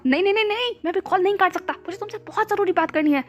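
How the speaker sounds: shouting. Acted. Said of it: "ईबो ने चिल्लाते हुए कहा".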